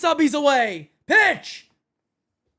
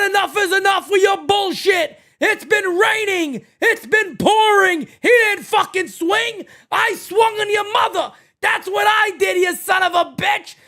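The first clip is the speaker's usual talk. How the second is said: livid manager; 2 semitones higher than usual. Acted. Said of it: "Oh, he's livid".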